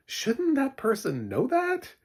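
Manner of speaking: high, drawn-out incredulous question. Retold or imitated. Viewer questioning clumsy TV exposition, incredulous. Acting out own exasperated reaction.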